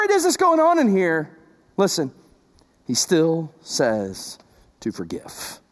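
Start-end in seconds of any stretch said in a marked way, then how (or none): 2.8-5.6 hushed emphasis. Real, not acted. Soft emphatic close of point.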